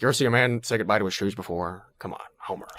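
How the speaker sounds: relaxed-throat Albert Brooks voice; Hank Scorpio voice. Retold or imitated. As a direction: loose throat, casual villain. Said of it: "do Hank Scorpio on The Simpsons".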